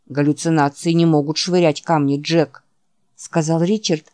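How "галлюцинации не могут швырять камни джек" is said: patient, understated talking-down; condescending explanation. Acted. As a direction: explain it as if to a simpleton. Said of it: "словно объясняя простую, но важную истину умственно неполноценному". (снисходительно, как слабоумному)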